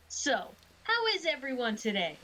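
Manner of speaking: put-on a touch of kids' entertainer lilt; clown. Clown addressing the crowd of kids, lightly put-on cheery voice. Player speaks as Sunny the clown.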